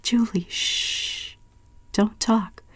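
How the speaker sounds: hushed, whispered calm. A narrator's reading. Roberta calming her frightened sister in a soft whisper. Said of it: "speak to her very calmly".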